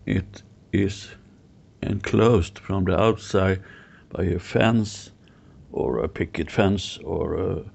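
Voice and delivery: measured guiding voice with long pauses; guided visualisation. Real, not acted. Guide to client picturing a meadow, guided visualisation. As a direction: lead them gently through imagery, pausing between phrases.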